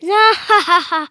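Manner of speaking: loud, acted monster guffaw; rire aux éclats. A narrator's reading. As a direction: laugh big as the Gruffalo. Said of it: "en riant aux éclats". (gros rire de monstre)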